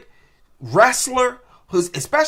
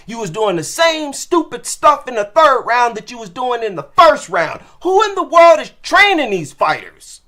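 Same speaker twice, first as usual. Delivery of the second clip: angry rant; 3 semitones higher, 4 dB louder than usual. Real, not acted. Furious rant at fighter.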